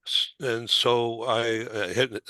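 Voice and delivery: real stutter, stuck on the words; stammering and restarting mid phrase. Real, not acted. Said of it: "my tongue gets in the way even now".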